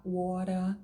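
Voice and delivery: WATER with tapped T and no final R; New York variant. Shown as a demonstration. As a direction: end WATER on an open A. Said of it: "você pode pronunciar".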